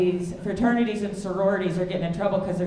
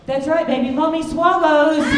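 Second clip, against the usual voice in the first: mock seductive; 7 semitones higher, 6 dB louder than usual.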